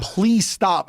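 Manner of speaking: imitating a helpless plea through laughter, without laughing; begging. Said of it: "I'm begging him".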